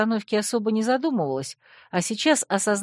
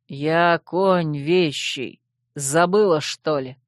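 snapping; 3 semitones lower, much slower than usual. Acted. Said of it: "огрызнулся конь".

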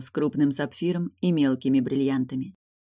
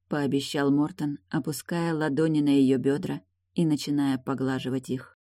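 ordinary delivery, nothing marked

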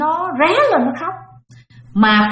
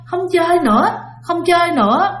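imitating a scared toddler crying, pitched higher; higher, whiny child's plea, mock crying; 7 semitones higher than usual. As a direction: mimic a frightened little boy begging to stop. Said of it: "nó khóc nha, mà nó nói vậy nè".

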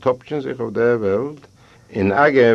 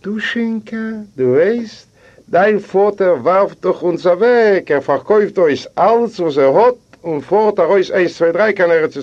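higher and louder, an angry wife; voiced scolding wife; 10 semitones higher, 5 dB louder than usual. Wife scolding husband about father's selling everything, shrill-free high loud rebuke. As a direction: scold him, voice climbing and loud. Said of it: "macht sie ihr".

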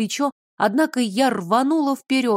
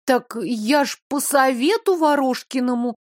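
babbling timidly; 3 semitones higher than usual. Acted. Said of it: "пролепетала она".

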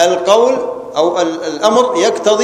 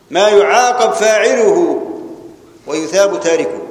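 slow dictation. Shown as a demonstration. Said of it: "teacher spelling out a definition".

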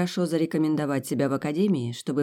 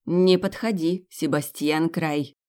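scolding by full name; slower than usual. Acted. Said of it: "специально назвала его полным именем".

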